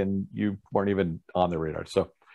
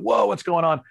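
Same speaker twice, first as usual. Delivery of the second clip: higher-pitched mock amazement; astonished reaction; 8 semitones higher than usual. Musician quoting auditioners startled by his wild dancing, mock astonishment. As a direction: imitate startled onlookers.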